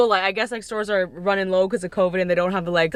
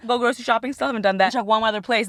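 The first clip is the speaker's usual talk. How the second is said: ordinary delivery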